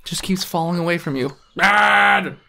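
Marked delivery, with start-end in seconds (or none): 1.6-2.4 put-on a boy calling out higher and louder; a boy shouting for his dad in a dream; child calling dad. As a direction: call out to your father as you fall. Boy keeps falling away.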